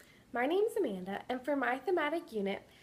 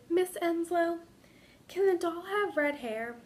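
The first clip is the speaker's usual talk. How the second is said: put-on whispered child question; 6 semitones higher, 3 dB louder than usual. Injured girl asking her teacher for a red-haired doll, hushed child voice. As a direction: lift into a timid child's voice, hushed. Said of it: "she whispered".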